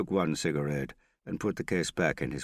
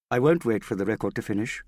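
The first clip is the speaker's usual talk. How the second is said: loud; 7 semitones higher, 6 dB louder, faster than usual. A narrator's reading. Interrupting the music, defiant.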